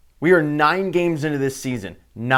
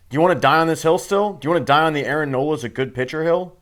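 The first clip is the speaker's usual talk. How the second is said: taunting; 4 semitones higher, 4 dB louder, faster than usual. Real, not acted. Taunting critics.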